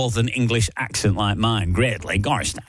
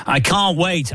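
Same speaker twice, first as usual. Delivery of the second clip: breathless dramatic line, pitched up; melodramatic line; 6 semitones higher, slower than usual. Acted. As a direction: play it like a soap opera cliffhanger. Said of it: "there's a whole drama in this".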